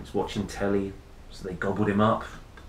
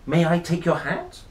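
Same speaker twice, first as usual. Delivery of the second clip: politest voice; 6 semitones higher than usual. Acted. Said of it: "in his politest voice".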